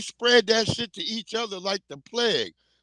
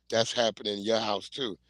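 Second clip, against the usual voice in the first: lightly voiced old white man; 10 semitones lower, 5 dB quieter than usual. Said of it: "He's like".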